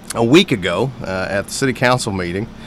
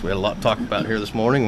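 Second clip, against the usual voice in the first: fast talk; faster than usual. Real, not acted. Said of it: "I sound a little bit like an auctioneer".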